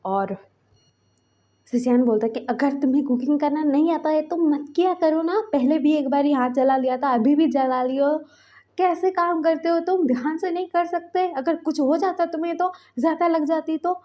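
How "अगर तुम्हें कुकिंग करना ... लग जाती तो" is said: angry scolding. Acted. Husband scolding the burnt cook, angry scolding. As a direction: tell him off sharply for burning his hand again. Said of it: "बोल के वो गुस्सा कर रहे थे".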